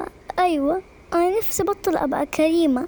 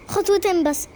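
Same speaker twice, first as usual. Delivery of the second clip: mocking imitation. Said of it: "تقولي لي خطوتين بس".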